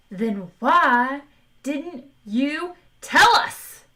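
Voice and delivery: high, loud outraged yell; indignant shout. A narrator's reading. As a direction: demand it, furious and high. Zaphod outraged at Marvin.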